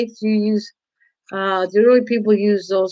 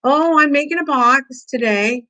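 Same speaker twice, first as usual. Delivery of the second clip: mock sweet; 4 semitones higher than usual. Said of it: "I was trying to be nice".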